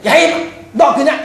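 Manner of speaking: high, mock-angry parent's outburst; exasperated parent scolding. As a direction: scold a child who keeps making trouble. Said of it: "어른들이 그러잖아요. 자식들이 속을 썩일 때에".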